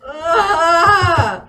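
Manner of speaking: loud laughing cry; flustered yelp. Real, not acted. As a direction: burst out in embarrassed yelp. Flustered by voice demand.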